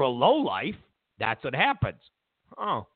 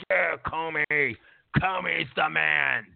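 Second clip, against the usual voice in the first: mock cheering fan; 4 semitones lower than usual. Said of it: "They're like".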